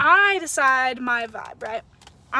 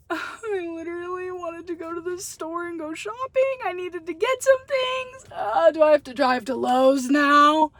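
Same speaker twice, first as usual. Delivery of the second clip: mock crying whine; 3 semitones higher, 3 dB louder than usual. Retold whining after bad interaction.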